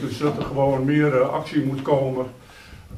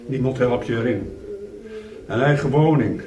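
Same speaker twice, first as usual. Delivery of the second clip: measured poetry reading with long pauses after lines; poem recitation; 3 dB louder than usual. Acted. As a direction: recite it line by line, louder than chatting.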